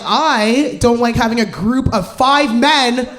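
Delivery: mock outrage rising; exasperated rant. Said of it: "I was like".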